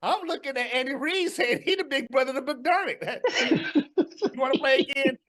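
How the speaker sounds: talking through real laughter; laughing. Real, not acted. Mocking the Bills to his cohost, laughing. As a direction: tease them while cracking up.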